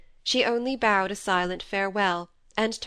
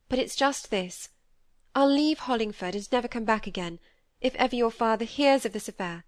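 put-on slightly raised, urgent young lady; lightly voiced Cynthia, insistent; 3 semitones higher than usual. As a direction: lightly play an agitated friend laying down an ultimatum. Voices Cynthia's agitated threat.

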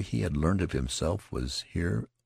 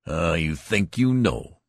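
slow, louder scornful jeer; 2 semitones higher, 6 dB louder, slower than usual. A narrator's reading. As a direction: sneer it slowly. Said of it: "with scorn".

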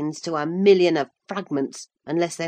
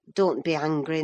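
ordinary delivery

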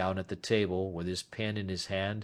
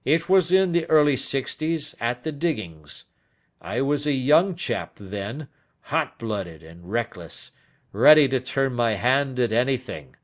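put-on animated, slightly raised old man's confession; confessing old Turner; 5 semitones higher, 6 dB louder than usual. Old man confessing his past to detective, animated. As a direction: recount the wild youth with a little force.

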